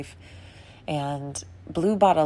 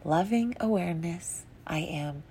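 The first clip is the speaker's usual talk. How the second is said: soft affirmation; 3 dB quieter than usual. Retold or imitated. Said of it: "pull that back and say".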